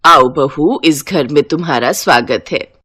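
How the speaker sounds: low-pitched mother-in-law welcome; welcoming mother-in-law. Acted. (बहू का स्वागत करती सास)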